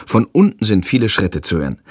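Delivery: usual speaking voice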